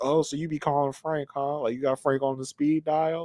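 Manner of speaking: put-on petty, jealous, accusing tone. Retelling a scene where Matt sounds jealous about Frank: imitating a jealous Matt. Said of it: "Matt is like a little jelly".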